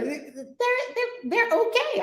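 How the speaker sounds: high giggly words; laughing through it. Real, not acted. Host giggling while admitting she likes demons.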